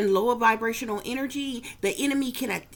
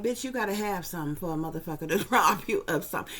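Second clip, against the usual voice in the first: quick, irritated brush-off with a laugh; tossing it back, fed up and dismissive; annoyed retort; 4 semitones lower, faster than usual. Retold or imitated. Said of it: "In a, in an annoyed way".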